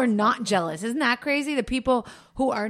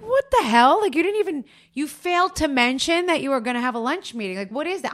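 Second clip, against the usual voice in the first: mock outrage; 5 semitones higher than usual. Wife imitates scolding husband over a lunch meeting, high and indignant. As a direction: scold him in mock fury. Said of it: "I'm like".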